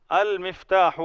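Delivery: المفتاح read whole, al-miftah, falling at the end; correct Arabic reading. Shown as a demonstration. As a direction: model المفتاح clearly with al. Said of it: "اب اس کو المفتاح ہی پڑھیں گے".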